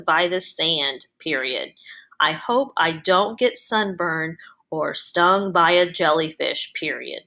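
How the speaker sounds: dictating, speaking each comma and period aloud; dictating with punctuation. Shown as a demonstration. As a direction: spell out the punctuation as you dictate. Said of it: "but give me some punctuation".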